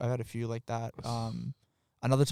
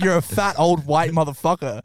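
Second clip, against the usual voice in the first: retold insult; 5 semitones higher, 6 dB louder than usual.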